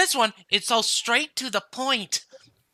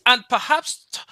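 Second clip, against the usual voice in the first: put-on Scottish accent. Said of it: "trying to do a Scottish accent".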